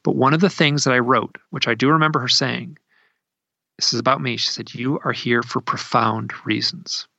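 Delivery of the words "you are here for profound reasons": solemn quoting. Retold or imitated. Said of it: "I'm just quoting what she told me".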